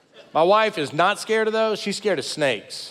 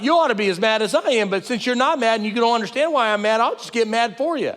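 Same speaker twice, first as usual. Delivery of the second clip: higher, fast, hammed-up fuming; mock angry rant; 6 semitones higher, faster than usual. Husband ranting back at his wife, mock angry and fast. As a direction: rattle it off like a man getting madder. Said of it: "I double up on the mad".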